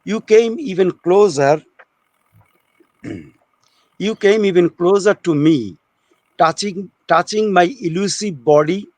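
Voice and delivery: slow, measured poetry reading with pauses; poem recitation. Acted. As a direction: recite it line by line, unhurried.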